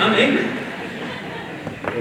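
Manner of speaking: slow, breathy whispered anger; quiet anger. Real, not acted. Pastor telling the church he is angry, in a slow seething whisper. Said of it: "I'm ticked off right now".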